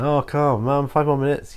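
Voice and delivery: put-on pleading child. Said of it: "I'd be like".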